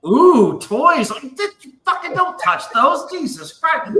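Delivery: high, girlish mock squeal of delight; his girlfriend cooing over the lightsabers, then his own snapping; imitating the girl. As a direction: lightly voice a giggly girl spotting toys. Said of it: "she's like".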